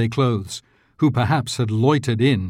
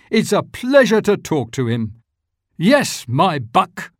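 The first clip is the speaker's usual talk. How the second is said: put-on eager old Scrooge; 7 semitones higher than usual. A narrator's reading. Scrooge asking the boy about the poulterer, eager. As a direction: lean out and ask keenly.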